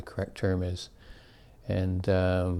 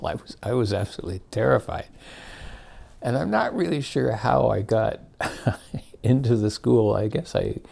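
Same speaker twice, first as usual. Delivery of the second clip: amused laugh through the words, a touch higher; laughing while telling; 3 semitones higher than usual. Real, not acted. Laughing while recalling terror.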